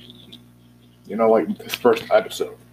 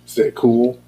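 anime catchphrase; 2 semitones higher, 4 dB louder than usual. Retold or imitated. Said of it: "as of what Yu-Gi-Oh would say".

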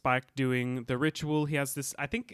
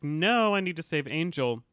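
retold refusal; 3 semitones higher than usual. Buffy refusing Kendra, acted out.

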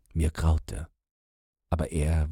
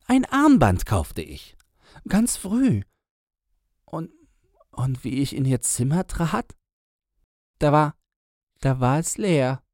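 agitated storyteller man; 7 semitones higher, 4 dB louder than usual. Acted. Man tells his story.

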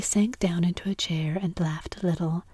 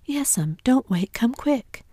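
higher, louder anxious urging; acted alarm, pitched up; urgent pleading; 6 semitones higher, 5 dB louder, slower than usual. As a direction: beg her to hurry. Sid urges aunt to hurry.

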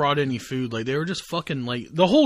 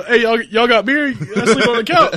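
ex-con slacker voice; 8 semitones higher, 8 dB louder than usual. Retold or imitated. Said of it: "that dude that just got out of jail".

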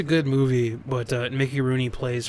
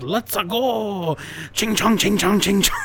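much higher, louder caricature cat, first words slow; cartoon Siamese cat; 7 semitones higher, 5 dB louder, slower than usual. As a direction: squeal it like an old Disney stereotype. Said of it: "jumps up with chopsticks and goes".

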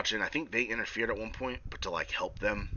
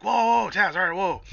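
calming Taz; 10 semitones higher, 7 dB louder than usual. Retold or imitated. Cage calming an angry Taz.

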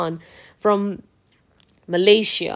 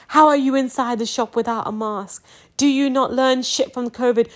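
louder, slower confrontation of a maskless shopper; angry retort; 3 semitones higher, 4 dB louder than usual. Retold or imitated. Venting at a maskless shopper in a shop, angry and loud. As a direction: tell them off with the blood boiling. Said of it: "my blood boils".

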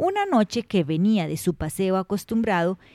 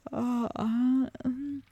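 yawn; 4 semitones higher, 7 dB quieter, much slower than usual. A narrator's reading. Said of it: "luego bostezó".

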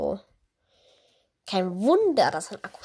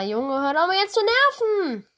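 raised, irritated complaint; annoyed; 8 semitones higher, 4 dB louder than usual. Real, not acted. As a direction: tell it off, fed up. Annoyed at laptop. (genervt und lauter)

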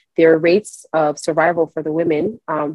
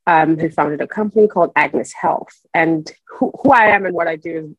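worn tape copy. Real, not acted. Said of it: "Please excuse the audio quality".

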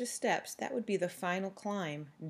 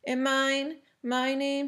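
higher, smug build-up; superior, hostile; 6 semitones higher, 4 dB louder, slower than usual. A narrator's reading. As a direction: savour your own name with a hostile smile. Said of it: "with a superior and hostile smile".

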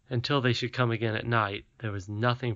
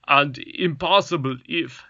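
dignified; 3 semitones higher, 5 dB louder than usual. A narrator's reading. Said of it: "with dignity".

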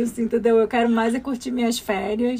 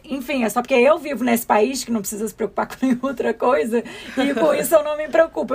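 laughing through the words; giggling self-mockery. Real, not acted. Laughs while confessing.

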